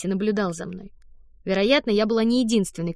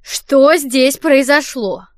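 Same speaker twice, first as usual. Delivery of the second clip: louder, very slow and stern; stern director; 4 semitones higher, 9 dB louder, much slower than usual. Acted. The hotel director arrives and demands an explanation, stern. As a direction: demand an answer with authority.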